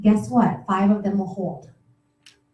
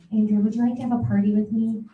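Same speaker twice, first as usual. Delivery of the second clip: desperate; 6 dB quieter, faster than usual. Shown as a demonstration. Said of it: "I'm, like, so desperate".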